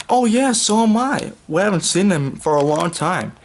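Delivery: put-on a bright cat-girl beaming with joy; delighted high girl voice. A narrator's reading. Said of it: "Kitty smiled with delight".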